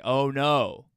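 slow, drawn-out dismayed question; a small child's earnest alarm, amused in the retelling; child's worried question. Retold or imitated. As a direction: laugh slipping into the retold worry. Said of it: "I say".

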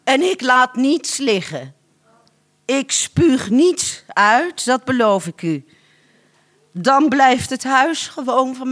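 woman bargaining for her house, high and pleading. Acted. Lady begs the man to keep her house, high and eager.

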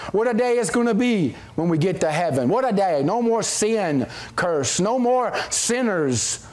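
measured, pleading church prayer; public prayer. Real, not acted. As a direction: pray aloud with pauses between petitions. Leads the congregation in prayer.

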